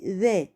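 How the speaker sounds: ذا with the tongue tip out; interdental dhal. Shown as a demonstration. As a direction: say ذا with the tongue between the teeth, voiced. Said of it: "لما بننطق حرف الذال بطلع حتة من لساني". (ذا بطرف اللسان طالع بين الأسنان)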